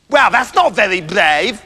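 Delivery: slow, dismissive bluster; pompous one-upmanship; rival boastful hunter. Acted. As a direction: scoff at another hunter's tale. Plays second hunter.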